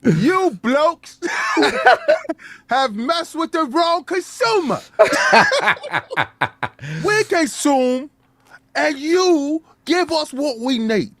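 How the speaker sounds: slow, laughing taunt in put-on voice; hammed-up gloating; mock gloating character. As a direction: taunt the company like a cocky villain. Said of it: "I don't like you in this accent".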